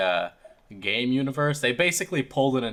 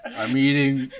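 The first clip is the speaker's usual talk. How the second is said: talking with mouth full; chewing while talking; much slower than usual. Real, not acted. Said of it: "I mean, I take big bites".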